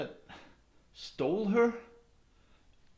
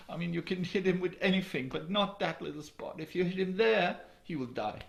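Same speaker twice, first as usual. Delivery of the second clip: high, bright-pitched princess voice; eager princess; 6 semitones higher than usual. Acted. The princess telling the brothers how to kill the troll, eager. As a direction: excitedly share the secret weak spot.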